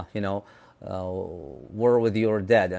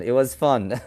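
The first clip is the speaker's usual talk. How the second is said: laughing. Real, not acted. Laughs while thanking for the story.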